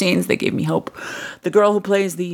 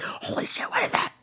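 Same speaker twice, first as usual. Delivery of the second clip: hushed whisper; 9 dB quieter than usual. Retold or imitated. Imitating real people whispering at lights in the sky. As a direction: breathe it out in awe. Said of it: "when people don't do in real life".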